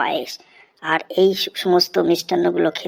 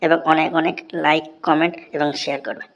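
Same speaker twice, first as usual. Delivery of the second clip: vlog outro; 3 dB louder than usual. Real, not acted. Channel outro to viewers.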